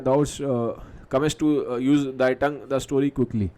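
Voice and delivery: drawn-out, halting reading of the soliloquy; teacher reads Macbeth's soliloquy slowly; slow Shakespeare recitation. Acted. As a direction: let each phrase hang. Reads Macbeth's order aloud.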